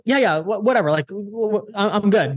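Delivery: mock-breathless, broken-up phone reply; gassed. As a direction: imitate answering while out of breath. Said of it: "I'm, like, gassed".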